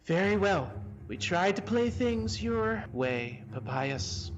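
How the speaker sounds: lightly voiced calm menace; calm, stern voice. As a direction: deliver a composed, stern ultimatum. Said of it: "in a very calm, stern voice respond back".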